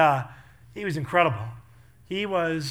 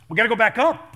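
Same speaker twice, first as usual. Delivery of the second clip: urgent plea; 4 semitones higher, 6 dB louder than usual. Retold or imitated. Acting out urgent plea to firefighter.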